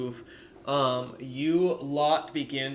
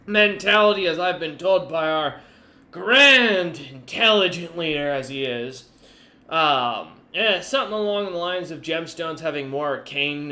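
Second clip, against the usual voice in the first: Goose the merchant; 3 semitones higher, 8 dB louder than usual. Acted. Merchant captain lecturing the party, loud and haughty. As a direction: lord it over them as the proud merchant.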